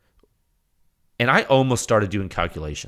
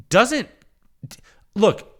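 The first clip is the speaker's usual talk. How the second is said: normal talking voice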